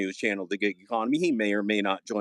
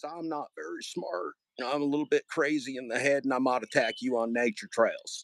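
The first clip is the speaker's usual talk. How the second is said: Pedro; 3 semitones higher than usual. Acted. Streamer mocks a rival gig worker, lightly mimicked. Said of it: "I like my impression of Pedro".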